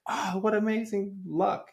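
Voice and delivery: lightly voiced neighbors, high and excited; a light sketch of delighted neighbors. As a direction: neighbors gushing over the old man's luck, high. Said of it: "They're like".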